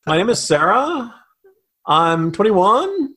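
every line rising like a question, the last one slowed; mock a young woman's upspeak introduction; lightly done rising question tune. Shown as a demonstration. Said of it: "You end up with upspeak".

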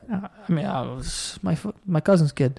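hint of an old Italian man; chummy old Italian neighborhood guy, lightly put on; old Italian man accent. Old guy vouching for Joey, light old Italian accent. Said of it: "like an old Italian man accent".

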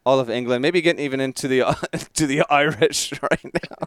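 a lightly put-on British accent drifting toward Irish; wandering fake English accent. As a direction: ramble in a half-hearted English accent. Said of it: "That's probably what I sound like right now".

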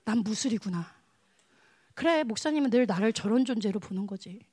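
low, subdued self-pity; acted gloomy murmur to oneself; dejected inner voice. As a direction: resign yourself to being the lowly one.

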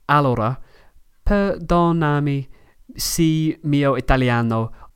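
Italian with an English accent; English learner's accent in Italian. Real, not acted. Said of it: "o mia pronuncia è mala".

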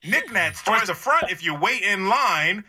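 lightly voiced store PA announcer; a casual in-store ad read; store loudspeaker announcer. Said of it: "just something to get the customer's attention".

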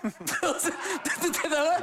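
voz aguda y entrecortada entre risas; imitando toques eléctricos. Acted. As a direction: tartamudea como electrocutado, riendo. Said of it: "venía el toque y era". (convulsión fingida por la descarga)

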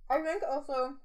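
talking with mouth full of food. Real, not acted. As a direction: say it through a mouthful. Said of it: "let me talk with my mouth full of food".

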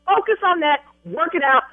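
emphatic commands with stretched, hard-hit words; angry ordering. Real, not acted. Bride ordering travel agent to fix booking, angry. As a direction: lay down the law, word by word.

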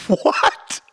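a breathy, high gasp of a question; stunned at the news, barely voicing it; wife hearing of the debt, stunned and high; shocked what.

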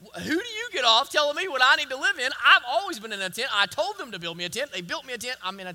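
a touch of mock indignation, fast; indignant God. Preacher voicing God rebuking David, mildly indignant. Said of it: "in other words".

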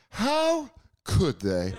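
slow, shocked disbelief; mock outrage. Host mocking viewers judging dirty cops, slow indignant. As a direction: drag it out in disbelief. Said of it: "you're supposed to watch that stuff and be like".

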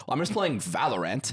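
mock "Valorant" with a full ant ending; imitating co-host. Friend showing co-host's bobbing delivery, imitated pronunciation. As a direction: send up his "Valorant", the last syllable a clear ant. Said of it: "You go".

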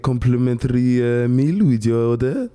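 put-on French waiter voice; French accent. Shown as a demonstration. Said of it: "that's actually pretty good".

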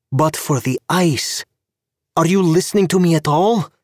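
rising from firm to high, fast exasperation; exasperated. A narrator's reading. Tanya berates Gabe for not listening: building exasperation. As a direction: build until she nearly shouts at him.

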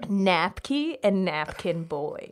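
put-on "Napky and Napkin Boy" said slowly, each word spelled out; slow, clear repeat. Shown as a demonstration. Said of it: "say that again".

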